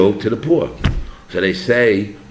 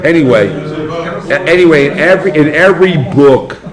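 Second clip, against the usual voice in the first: laughing; 7 semitones higher, 9 dB louder than usual. Real, not acted. Laughing after French exchange.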